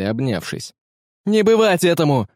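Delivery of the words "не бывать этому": high, loud cry of refusal; defiant shout. A narrator's reading. Young man shouts defiance at the pirate captain. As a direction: shout it back at him, defiant. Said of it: "закричал Филиппа".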